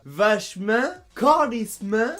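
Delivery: vachement fini en « min »; AN dit IN. Shown as a demonstration. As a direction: fermer la finale de vachement en IN. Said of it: "le en devient un". (« vachemin » à la québécoise)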